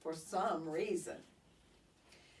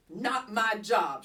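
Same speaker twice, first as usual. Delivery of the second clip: grumbled, a bit louder; a put-upon teacher complaining; grumbling; 5 dB louder than usual. Acted. Teacher grumbling over cleaning the cage, grumbled. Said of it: "she grumbled".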